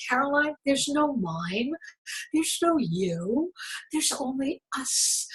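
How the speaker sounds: a quiet, controlling calm; really quiet. Retold or imitated. Boyfriend telling her there's no her, only us, quietly and slowly. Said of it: "he got really quiet".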